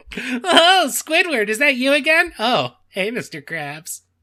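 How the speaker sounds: high cartoon sponge voice. Imagining a cartoon scene, the speaker greets characters in a SpongeBob voice. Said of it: "that's a pretty good SpongeBob".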